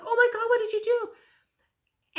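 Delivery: slow, high and loud shocked exclamation; horrified cry. Retold or imitated. Seeing the hole in her daughter's foot, slow high horrified cry. Mother sees needle wound.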